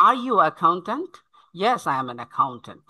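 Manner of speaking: "accountant" with kh, rising question, falling answer; aspirated C and T. Shown as a demonstration. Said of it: "খয়ের মতো হবে". ("accountant"-এ খ, প্রশ্নে সুর উঠবে)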